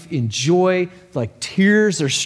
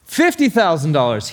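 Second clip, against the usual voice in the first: a touch louder bid; mild mock shout; 2 semitones higher, 3 dB louder than usual. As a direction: call the bid, half-raised. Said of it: "he shouts".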